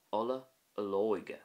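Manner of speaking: "ola olóige" with the ó long and stressed; quick "ola", then lean on the "ó" of "olóige"; emphasis on O fada. Shown as a demonstration. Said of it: "more emphasis on the O fada".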